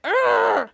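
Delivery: exaggerated groan of annoyance; mock disgusted grunt. Retelling Evil Charlotte's reaction, mock disgusted grunt. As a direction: let out a loud, drawn "urgh".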